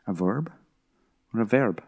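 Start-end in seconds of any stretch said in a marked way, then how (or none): 0.1-0.5 quieter mock American accent, questioning; imitated American accent. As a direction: try VERB in an American accent. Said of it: "doing it in your accent".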